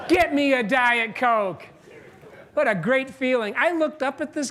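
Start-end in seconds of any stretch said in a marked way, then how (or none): 0.1-1.7 "Get me a Diet Coke" louder and slow, each word landed; loud slow command. Shown as a demonstration. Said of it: "turn and say to your boss these words".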